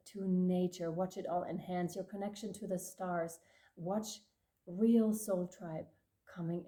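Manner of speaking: measured, solemn spiritual transmission; channeled message. Acted. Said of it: "transmission end".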